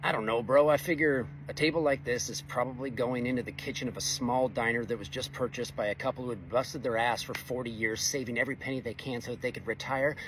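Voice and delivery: mildly sarcastic, laid on thick. Retold or imitated. Welder playing along with a coworker's scratch question, sarcastic. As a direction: play along with mock nonchalance. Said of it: "I'm picking up the sarcasm".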